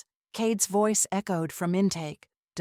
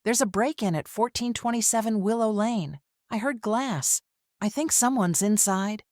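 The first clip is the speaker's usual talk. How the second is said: higher, fast, panicked report of a break-in; high, panicked call; 3 semitones higher than usual. Acted. Caller faking panic to the emergency operator, high and rushed. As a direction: rush it out like a scared caller. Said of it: "voice pitched high and panicked".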